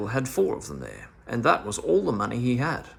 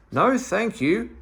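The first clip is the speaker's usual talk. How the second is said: a high, louder call back through the window; 9 semitones higher, 5 dB louder, slower than usual. Acted. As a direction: Dame Fanny calls her refusal back through the window, high. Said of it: "called back Dame Fanny".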